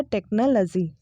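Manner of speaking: "टेक्नोलॉजी" as TEK-nuh-luh-zee; short "luh" in "टेक्नोलॉजी"; correct pronunciation. Shown as a demonstration. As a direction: model "टेक्नोलॉजी" without a "law" sound. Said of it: "correct जो pronunciation है वो है".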